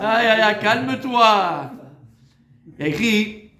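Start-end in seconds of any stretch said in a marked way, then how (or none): 0.0-1.7 mock exasperation. Comic cry telling to calm down.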